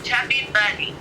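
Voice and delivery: cheeks stuffed full. Real, not acted. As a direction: mouth packed with marshmallows. Chubby Bunny marshmallow challenge.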